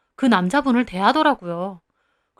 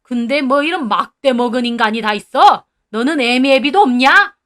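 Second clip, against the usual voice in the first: put-on louder gruff old man's rebuke; stern scolding; 5 dB louder than usual. Grandfather berating the rude owner, loud and stern. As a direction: dress him down hard.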